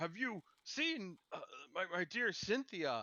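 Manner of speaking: high, slow, frightened, confused, frantic delivery. Voicing Cornelius asking townsfolk about Cynthia: frightened and frantic. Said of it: "the voice of Cornelius, frightened, frantic, confused".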